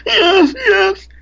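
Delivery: high, loud, crying yes; tearful yes. Retold or imitated. The woman answering through tears, high and crying. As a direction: break into a high sob on each yes. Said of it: "the woman answering again".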